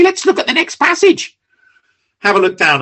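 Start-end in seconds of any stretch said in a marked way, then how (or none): 0.0-1.4 mock brush-off. Mocking evasive preacher response.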